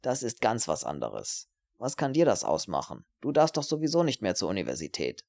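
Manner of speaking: put-on scornful young man minimising her plight; dismissive, self-centred student. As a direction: brush her trouble aside. Voices dismissive Herbert.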